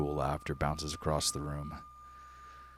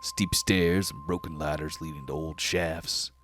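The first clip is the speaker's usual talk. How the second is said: menacing hobgoblin. Acted. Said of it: "and he goes".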